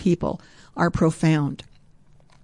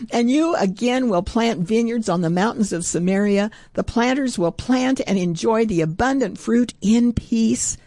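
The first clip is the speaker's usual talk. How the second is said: excited; 2 semitones higher than usual. Real, not acted. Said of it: "I'm getting so excited".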